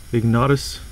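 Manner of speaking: "Ignatus" with an a in the middle; alternative pronunciation. Shown as a demonstration. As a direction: try "Ignatus", a as the middle vowel. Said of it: "problems pronouncing this guy's name".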